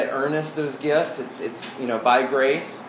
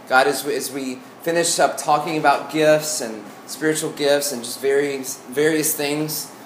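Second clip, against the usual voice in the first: prayer. Acted. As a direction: pray it sincerely and gently. Leads a prayer.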